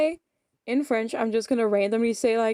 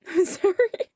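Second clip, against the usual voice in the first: high, loud, slow through laughter; real laughing apology; 11 semitones higher, 6 dB louder than usual. Real, not acted. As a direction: apologize while cracking up. Breaks into laughing fit.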